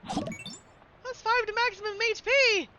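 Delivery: high, slow, booming reward call; game announcer. Acted. The streamer announces the hat upgrade, hammed-up. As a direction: announce it like a triumphant game jingle.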